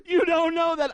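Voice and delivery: high, loud frantic objection; panicked retort. Retold or imitated. Panicked seatmate arguing with the preacher, loud frantic. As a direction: snap back in mock panic.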